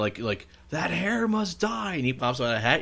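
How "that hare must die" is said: high, slow cartoon Southern judge. Retelling the cartoon judge down south, hammed-up decree. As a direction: pronounce sentence in a high, stretched-out voice. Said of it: "He was, like, down south".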